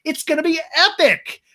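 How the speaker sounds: high, loud burst of mock excitement; Sheena impression. Bride gushing to camera about her wedding, mock excited. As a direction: leap up in pitch for a hyped-up bride. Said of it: "Sheena in the same talking head goes".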